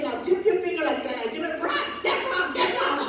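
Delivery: lightly voiced bossy manicurist; imitating the nail lady. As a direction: order like the cranky manicurist. Mimics lady's orders.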